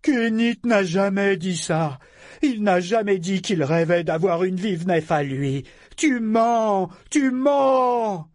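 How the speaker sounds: put-on high, loud, childish denial; outraged shouting. A narrator's reading. Figurehead accusing the pirate of lying, shouting. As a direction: shout him down, building to a scream. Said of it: "s'écria-t-il".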